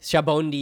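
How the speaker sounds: "Shabondi" as shah-BON-dee; pronunciation with N. Shown as a demonstration. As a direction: echo "Shabondi" with the n before dee. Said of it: "I've heard that one too".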